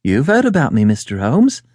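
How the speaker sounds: mildly startled woman client; a touch of astonishment; astonished cry. Acted. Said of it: "she cried".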